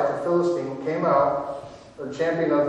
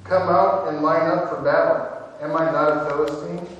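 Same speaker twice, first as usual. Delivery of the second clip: a louder, preached giant's challenge; Goliath's challenge; 3 dB louder than usual. Acted. Goliath shouting defiance at the ranks of Israel, louder. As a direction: throw the taunt across the valley. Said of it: "Goliath stood and shouted".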